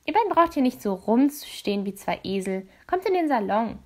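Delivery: lightly voiced brisk hostess; a hint of a bossy madame ordering guests in; leicht gespielte Dorothea. (leicht angedeutete resolute Gastgeberin)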